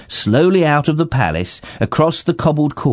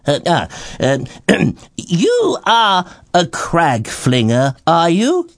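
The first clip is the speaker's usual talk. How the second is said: slow, hesitant royal voice; a dumbstruck king fumbling for words; flustered king; 5 semitones higher, slower than usual. Acted. King gathering his thoughts.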